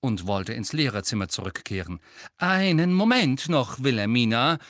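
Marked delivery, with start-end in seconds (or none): 2.4-4.6 called out. A narrator's reading. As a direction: call her back across the corridor. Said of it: "rief Professor McGonagall". (laut und streng gerufen)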